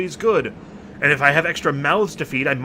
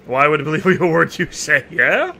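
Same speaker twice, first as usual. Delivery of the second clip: scornful laugh; 5 dB louder than usual. Acted. Mocking the enemy chief's parley offer.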